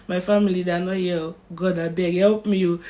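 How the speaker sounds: mock-panicked pidgin prayer; panicked plea. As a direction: plead with God in a rush. Scared prayer on theatre table.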